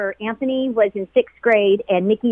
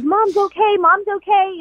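imitating high-pitched, overjoyed relief; imitated frantic relief, high and urgent; frantic happy crying; 11 semitones higher than usual. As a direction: retell his tearful good news, pitched way up. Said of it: "frantic, happy, crying".

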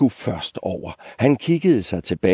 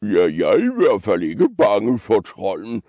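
hint of a blustering big goat; lightly voiced big goat, putting on courage; big billy goat. Big goat denying fear to the old goat, lightly voiced bluster. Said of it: "sagde den store bukke Bruse".

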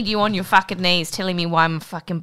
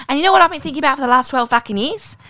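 laughing; 8 semitones higher, faster than usual. Real, not acted. Laughing through punchline.

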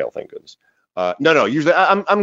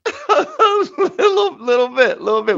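coy high voice. Acted. Coy high answer about spirits.

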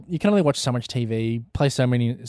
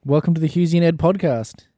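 mock Ed; 4 semitones higher than usual. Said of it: "I'll be Ed for you".

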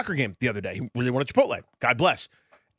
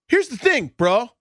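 higher-pitched mock teenager; imitated teen talk; 8 semitones higher, 4 dB louder, much slower than usual. Teenager talking among friends, mock bro talk. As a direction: play a teen bro holding forth to friends. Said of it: "talking the way that young people talk".

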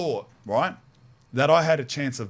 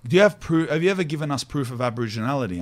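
mock lawyer; faster than usual. Lawyer voiced in retold story.

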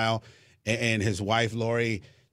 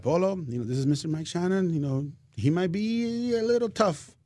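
imitating Ann Carroll; 6 semitones higher than usual. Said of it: "she's like".

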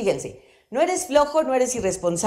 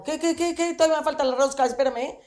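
higher, indignant "qué, qué, qué"; mock offended; 6 semitones higher, much faster than usual. Teacher acting a woman teased about her weight, mock indignant. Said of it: "O del peso".

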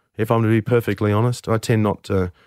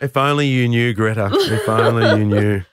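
chuckling. Real, not acted. Joking to Greta about his crimes.

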